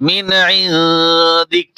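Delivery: ইনদিক ends without the final vowel, stopped short; the waqf pronunciation; pause form. Shown as a demonstration. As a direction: stop on ইনদিক with no ending vowel. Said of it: "ওয়াকফ করলে হরকত উচ্চারণ হয় না".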